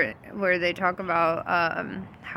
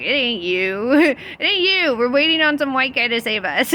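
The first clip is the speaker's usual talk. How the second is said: mocking while laughing; 5 semitones higher, 5 dB louder than usual. People rejecting a savior, mocked.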